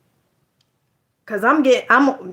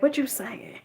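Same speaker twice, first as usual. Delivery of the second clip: big shot; 2 semitones higher, 12 dB quieter than usual. Retold or imitated. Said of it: "like, a big shot".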